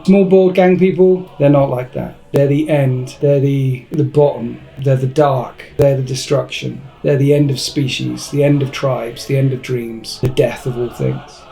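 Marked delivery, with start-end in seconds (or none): 2.3-11.4 grave mock oratory, sinking and softening to the end; mock-solemn. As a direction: deliver a doom-laden list, letting each item fall. Solemn climax of mock speech.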